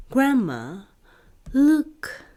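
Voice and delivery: rising excited call to Grandma. Acted. Moana calling to Grandma on seeing hatchlings, excited. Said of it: "she said excitedly".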